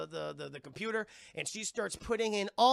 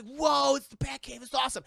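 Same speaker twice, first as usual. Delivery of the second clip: high mock amazement; hammed-up wide-open wow; excited kid-like awe, pitched up; awestruck excitement; 6 semitones higher, 7 dB louder than usual. Character awed by the Batcave.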